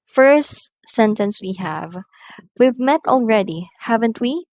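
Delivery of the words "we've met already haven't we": high question, "haven't we" lifting at the end; rising tag question. Shown as a demonstration. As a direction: ask for a real answer, raising "haven't we". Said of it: "question tags that are real".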